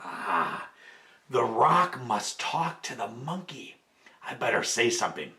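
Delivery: low, slow and quiet scheming; low crocodile thinking. A narrator's reading. Crocodile plotting on the rock, low and slow.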